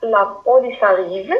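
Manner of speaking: "La police arrive" with the voice rising at the end; alarmed rising call; rising exclamation. Shown as a demonstration. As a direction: lift the tune on "arrive". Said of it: "intonation montante".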